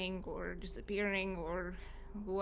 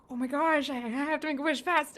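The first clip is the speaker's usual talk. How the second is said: excited; 7 semitones higher, 6 dB louder than usual. Retold or imitated. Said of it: "and I'm just like".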